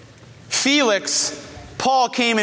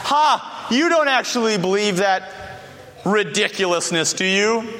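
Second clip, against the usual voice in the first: mocking scoff. Preacher voices Athenians laughing at Paul's preaching, mocking scoff. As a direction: scoff as if it's ridiculous. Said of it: "Some mocked. Some scoffed. Some laughed".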